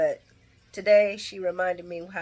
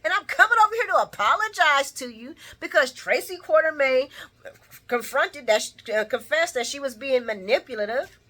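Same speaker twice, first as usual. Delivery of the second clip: male character voice; 6 semitones higher, 5 dB louder than usual. Retold or imitated. Retold soap scene, man pleading.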